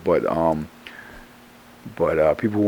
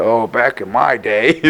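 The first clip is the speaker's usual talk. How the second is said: put-on bitter old man; 3 semitones higher, slower than usual. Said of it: "call you a bitter old man".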